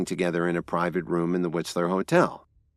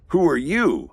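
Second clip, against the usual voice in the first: higher, louder mock roar; impatient roar; 9 semitones higher, 4 dB louder than usual. A narrator's reading. Drake roaring at the stranger who touched him, hammed-up. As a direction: snap it out, losing patience. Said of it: "Drake roared impatiently".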